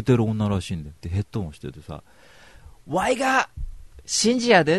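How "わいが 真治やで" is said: much higher, louder mock Kansai swagger; hammed-up Kansai guy introducing himself; Kansai self-intro. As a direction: announce yourself like a show-off. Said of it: "って言ったら".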